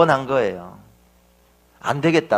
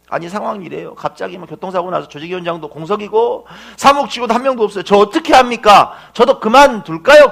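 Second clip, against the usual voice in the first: worried plea; 4 semitones higher, 5 dB louder than usual. Retold or imitated. Director pleading for advice.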